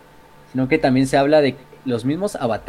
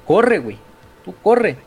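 higher, louder shouted command; urgent order; 7 semitones higher, 5 dB louder, slower than usual. Retold or imitated. Emperor orders Ra to run, shouted urgent command. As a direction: bark the order to flee.

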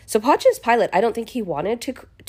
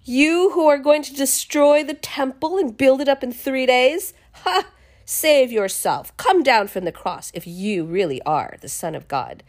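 mocking; 4 semitones higher than usual. Onlookers jeering at Jesus on the cross, mocking. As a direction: imitate jeering onlookers, starting high. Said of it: "Basically mocking him".

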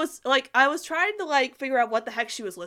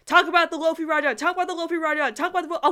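mock demanding fans; 7 semitones higher, 6 dB louder, faster than usual. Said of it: "a lot of people are probably saying".

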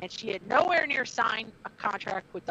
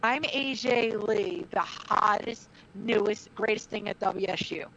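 slow, drawn-out imitation of a wrestler's promo; lightly mock a rival's self-introduction, stretching the words; slowly recited promo line, imitated; mock wrestling promo; 3 semitones lower, slower than usual. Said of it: "stand there and go".

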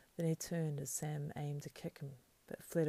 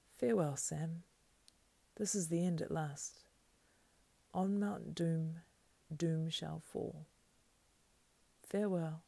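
solemn farewell; 3 dB louder than usual. Acted. Hobbit parting from his friend at the end, solemn. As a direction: draw it out as a last farewell.

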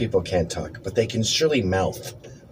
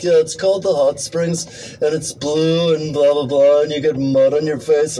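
mock know-it-all tourist; 3 semitones higher, 3 dB louder than usual. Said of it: "they're like".

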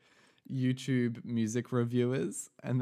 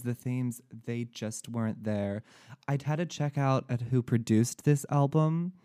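put-on American reviewer accent. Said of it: "you changed accents halfway through".

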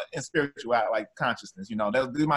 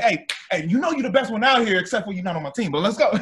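higher, louder pep talk to a teammate; hype teammate; 6 semitones higher, 3 dB louder than usual. Retold or imitated. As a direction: pump up a teammate on the court. Hyping a teammate on court.

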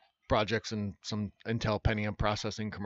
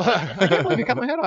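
higher and louder whining complaint; whiny knight; 8 semitones higher, 8 dB louder than usual. Retold or imitated. Auditioning voice actor delivering the knight's line in a whiny wail. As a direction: moan it like a wounded, petulant knight. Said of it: "sounding whiny and stuff like that".

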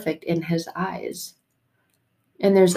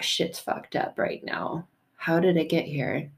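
despairing whisper; 6 dB quieter than usual. Retold or imitated. Person whispering to themselves in a crisis. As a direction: breathe it out in despair. Overwhelmed inner panic.

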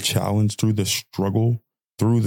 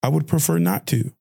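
polite refusal; 6 semitones higher than usual. Retold or imitated.

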